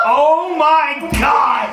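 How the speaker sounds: slow, loud, shocked outburst of shouting.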